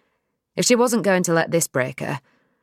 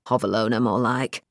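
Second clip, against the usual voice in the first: low, dry put-down; dry scoff; 5 semitones lower than usual. Acted. Dad dismissing Nell's farm, low dry scoff. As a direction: undercut her with a scoff.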